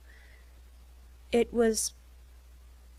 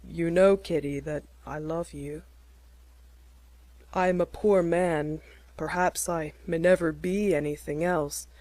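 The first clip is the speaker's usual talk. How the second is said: lightly voiced Jack; 2 semitones lower than usual. A narrator's reading. Young man proposing to Kitty, lightly voiced earnest.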